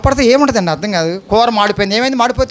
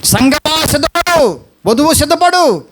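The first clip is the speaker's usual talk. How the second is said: rousing call; 5 semitones higher than usual. Real, not acted. Preacher calling out to congregation.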